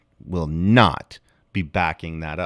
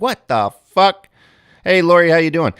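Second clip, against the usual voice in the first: mock stunned outrage; 8 semitones higher, 5 dB louder than usual. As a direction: act shocked, then wave it off casually. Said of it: "everybody's like".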